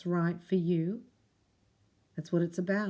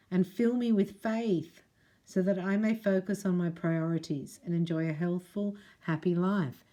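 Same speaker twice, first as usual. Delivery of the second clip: prayer line. Acted. Prayer repeated, slower.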